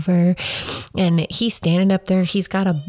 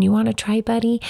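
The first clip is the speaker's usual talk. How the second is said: put-on higher, gentle mom voice to a toddler; tender to child; 5 semitones higher than usual. Mom gently offering the mic to her son, tender. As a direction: coax a little boy kindly. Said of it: "I handed him the microphone".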